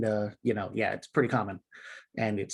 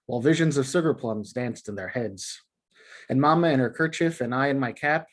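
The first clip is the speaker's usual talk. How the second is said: poem reading. Shown as a demonstration. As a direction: read it out in all its glory, singsong beat. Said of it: "in all its glory as it's being read".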